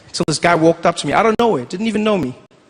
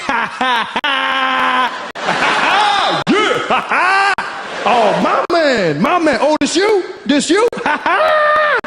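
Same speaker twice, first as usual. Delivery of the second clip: exaggerated mock laugh; 9 semitones higher, much slower than usual. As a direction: ham up a big cool-guy laugh. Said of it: "I was like".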